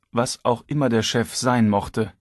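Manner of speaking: ordinary delivery, nothing marked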